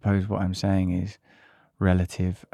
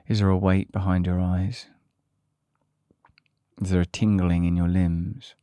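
measured body-scan guidance with long pauses; calm meditation leader, pausing between prompts; guided meditation. Acted. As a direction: guide listeners calmly through a body scan.

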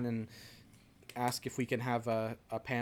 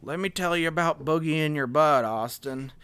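Bill Clinton impression; 3 semitones higher, 6 dB louder than usual. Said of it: "you need a little bit more Southern on that".

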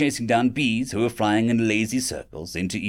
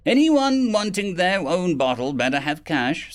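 yelling; 6 semitones higher than usual. Acted. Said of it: "someone yelled".

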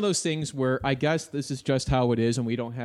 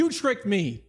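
put-on whiny kid voice; 6 semitones higher, slower than usual. Playing fooled kid.

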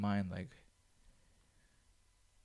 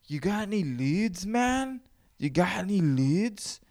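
high squeaky stoner voice, much higher; Cheech and Chong chick; 9 semitones higher, 4 dB louder, slower than usual. Retold or imitated. Mimicking the woman from Cheech and Chong asking about leads. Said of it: "the voice of that fucking, the chick from Cheech and Chong".

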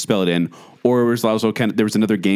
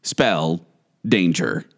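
lower, slightly ominous toy voice, words set apart; robotic voice; 5 semitones lower, much slower than usual. Retold or imitated. Co-host telling a scary story, imitating the toy's robotic voice. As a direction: imitate a talking spelling toy. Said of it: "this really robotic voice".

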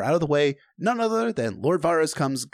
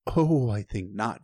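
lightly voiced Varys; 5 semitones lower, much slower than usual. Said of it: "Varys said".

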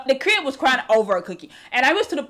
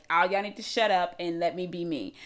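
low, soft, unbothered imitation; mellow, low-voiced imitation; zen coworker; 6 semitones lower, 6 dB quieter than usual. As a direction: quietly lay down a boundary, very zen. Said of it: "He's very zen".

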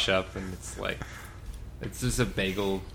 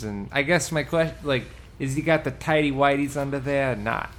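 put-on Staten Island accent; 2 semitones higher than usual. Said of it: "That's just, like, Staten Island, man".

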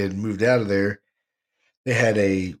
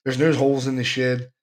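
insistent worker; 3 semitones higher than usual. Retold or imitated. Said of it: "He goes".

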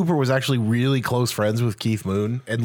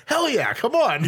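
higher, hyped agreement; enthusiastic yes; 10 semitones higher than usual. Retold or imitated. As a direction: say yes like you'd never regret it. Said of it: "that she wasn't like".

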